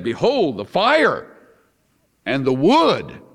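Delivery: lightly acted questioning boy, pitch swooping up; a hint of a curious son pointing things out; Isaac. Son speaks to his father on the climb, lightly voiced boy. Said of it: "Isaac spoke to his father and said".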